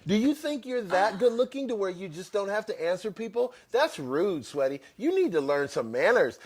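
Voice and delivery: loud, high-pitched imitation of an angry texter; hammed-up indignant yelling; mock pissed-off rant. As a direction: scold like a spurned admirer typing in caps. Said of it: "Now he's pissed at me".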